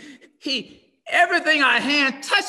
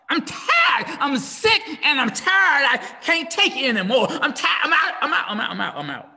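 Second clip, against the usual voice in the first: fed-up wife; 2 semitones higher than usual. Acted. Preacher voices fed-up wife.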